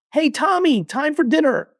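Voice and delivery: parent calling out. Retold or imitated. Mom calling Tommy from his sandcastle, parent calling out.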